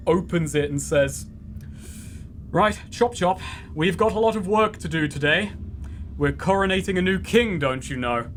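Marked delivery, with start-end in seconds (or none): 2.5-8.3 higher, brisk bossy commander; brisk bossy villain. Acted. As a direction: hurry the servants along briskly. Droog orders servants, higher.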